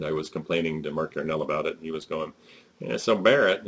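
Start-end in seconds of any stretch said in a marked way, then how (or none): 2.8-3.7 a hint of an Arkansas accent; mild Arkansas impression. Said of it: "in his Arkansas accent".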